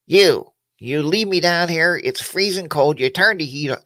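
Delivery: slow, hushed, whiny machine; talking motorcycle voice. Retold or imitated. Motorcycle left in the cold garage complains to its owner, slow hushed whine. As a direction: voice the neglected bike, slow and whispered at first. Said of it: "That's my motorcycle talking".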